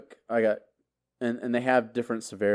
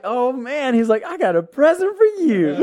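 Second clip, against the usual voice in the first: high, loud, laughing gloat; sergeant laughing; 13 semitones higher, 7 dB louder than usual. Retold or imitated. Drill sergeant teasing the returning soldier, laughing gloat. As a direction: chuckle through the threat.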